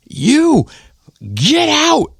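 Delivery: very high imitated screech; drunk mother's yell. Drunk mother finding him in the coats, high mock yell. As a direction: mimic her pouncing on someone hiding. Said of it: "and she's like".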